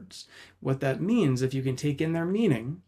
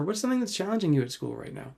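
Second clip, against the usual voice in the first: higher, quick and inviting; open question demo; 5 semitones higher, faster than usual. Shown as a demonstration. Parent asks child about school in an inviting higher voice. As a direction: ask with real curiosity.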